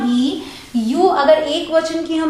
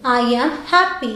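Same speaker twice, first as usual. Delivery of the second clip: slow clear read; 2 semitones lower, much slower than usual. Shown as a demonstration. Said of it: "मैं खुश हूँ".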